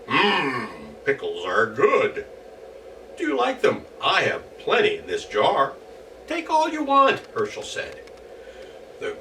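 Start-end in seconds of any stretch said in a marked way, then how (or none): 0.1-2.3 goblin voice. Acted. Goblin swallows pickle. 3.2-5.7 high, teasing voice; playful offer. Acted. Herschel tempting goblin. 6.3-7.2 high, louder sly offer. Acted. Herschel tempting goblin.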